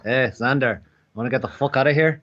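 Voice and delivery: rough attempt at a Scottish accent; borrowed Scottish accent, tossed off. Showing the only accent he can do, imitating Scottish. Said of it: "is a Scottish accent from being around Foxamore".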